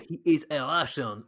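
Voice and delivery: botched Russian accent, sliding toward French; bad Russian accent. Shown as a demonstration. Podcaster mimicking an actor's villain, bad Russian accent. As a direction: attempt a Russian accent and miss. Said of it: "that was the worst Russian accent".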